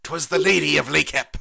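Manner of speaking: loud hammy archaic pronouncement; stagey fake archaic declaiming. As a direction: proclaim it like old legend. Mock archaic legend line.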